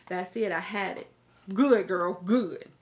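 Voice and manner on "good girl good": loud approval. Real, not acted. Cheering the mom's slap.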